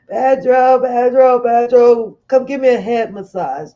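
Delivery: loud repeated call to Pedro; calling Pedro over for a head massage. Real, not acted. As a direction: holler his name across the room.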